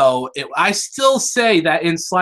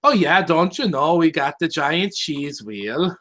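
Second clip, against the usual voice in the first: bad Midwestern accent. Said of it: "sounded more Dutch than anything else".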